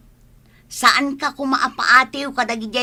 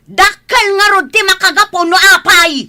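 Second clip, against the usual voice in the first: a loud, high, bitter shout; a mother shouting back during a family quarrel; angry outburst; 9 semitones higher, 8 dB louder than usual. Acted. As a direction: throw it back at her in anger. Heated argument with a relative.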